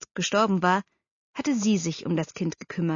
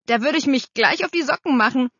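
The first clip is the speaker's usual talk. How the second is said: eager assurance; 6 semitones higher, 5 dB louder than usual. A narrator's reading. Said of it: "versicherte Bernhard".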